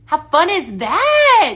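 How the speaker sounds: delighted gushing to the viewers; excited gush. Real, not acted. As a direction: gush over it slowly. Excited about product.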